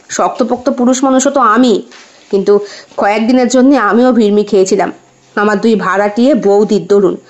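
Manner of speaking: a hint of a sheepish confession, sinking in pitch; confessing husband. Husband admits the tenant wives floored him, lightly voiced low confession.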